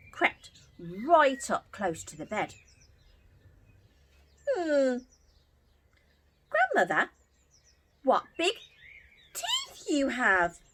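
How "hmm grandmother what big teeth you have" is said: put-on girl crying out. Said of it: "cried Little Red Riding Hood".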